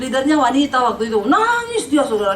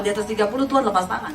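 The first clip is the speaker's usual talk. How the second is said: laughing punchline; 3 semitones lower, 4 dB quieter, faster than usual. Real, not acted.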